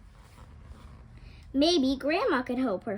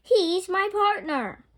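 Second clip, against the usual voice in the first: earnest insistence; 7 semitones higher, 6 dB louder, slower than usual. A narrator's reading. Red defends the wolf.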